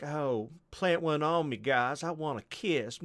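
high, cackling put-on hag; the old hag begs the boys for a kiss with a cackle.

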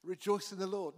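emphasized repeat of Rejoice in the Lord; emphatic. Shown as a demonstration. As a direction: hit Rejoice in the Lord with weight. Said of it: "I'm emphasizing it".

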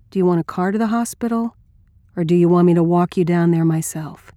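mildly soothing, measured offer; gently manage a crisis. Acted. Offering help to a shaken woman, understated soothing tone. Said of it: "in a soothing tone".

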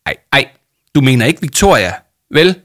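stammering dismay. A narrator's reading. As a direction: blurt it out in alarmed disbelief. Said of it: "stammede hun og blev helt bleg". (forskrækket og højt)

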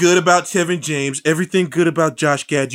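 excited pitch. Real, not acted.

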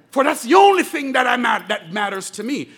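loud, ringing declaration; shouted climax of the sermon; preaching shout. Real, not acted. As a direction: belt it to the congregation.

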